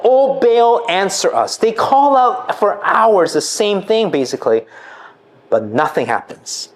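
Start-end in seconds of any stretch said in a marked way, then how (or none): 0.0-1.6 raised voice calling on Baal; a mild raised plea. Retold or imitated. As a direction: call out to the god, pleading.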